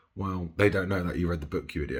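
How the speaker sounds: ordinary talk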